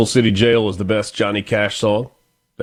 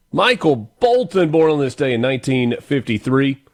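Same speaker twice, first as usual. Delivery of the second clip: name pitched up high; announcer flourish; 4 semitones higher than usual. Real, not acted. Radio host reintroducing the birthday singer, high-pitched flourish. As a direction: lift the name up for a showy introduction.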